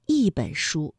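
"一" pronounced yì, falling; 一 in fourth tone. Shown as a demonstration. Teacher shows learners the tone change, "一" said falling yì. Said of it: "所以一字读一".

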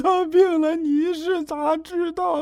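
high, slow, sobbing question; a high, wailing accusation through tears; tearful accusation. Acted. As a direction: cry it out, hurt and jealous. Jealous lover accuses, crying.

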